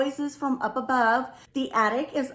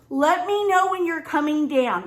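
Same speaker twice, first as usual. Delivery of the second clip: raised, higher retold call; retold yell upstairs; 4 semitones higher, 4 dB louder than usual. Wife calling up to husband upstairs, mild retold yell. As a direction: call up to someone upstairs, lightly acted. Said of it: "I yell up to him".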